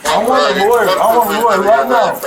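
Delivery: loud, insistent demand for a lawyer. Real, not acted. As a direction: raise the voice and insist. Passenger arrested, demands lawyer.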